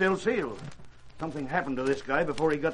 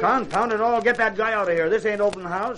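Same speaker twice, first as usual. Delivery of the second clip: angry; 5 semitones higher, 5 dB louder than usual. Acted. Sergeant angry at intruder.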